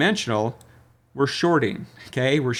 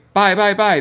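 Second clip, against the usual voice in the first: mimicking crowd frenzy; 8 semitones higher, 7 dB louder than usual.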